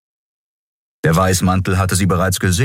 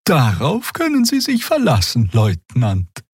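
very high alien voice, eager; high Draxül promise; Xea assuring; 8 semitones higher than usual. A narrator's reading. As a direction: flatter the guard in a lifted voice.

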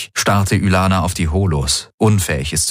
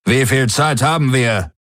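higher tense question; urgent question; 6 semitones higher than usual. Acted. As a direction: press for an answer. Daraios fragt drängend. (drängende Frage)

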